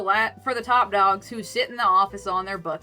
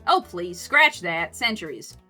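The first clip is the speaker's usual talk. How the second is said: Karen; 2 semitones lower, 5 dB louder, slower than usual. Acted. Coffee seller teases tired friend, humorous Southern scoff. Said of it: "humorous scoff".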